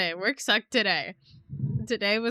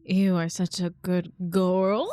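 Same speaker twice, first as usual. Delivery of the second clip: pet voice; 3 semitones lower, 4 dB louder than usual. Pretend. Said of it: "okay, here we go".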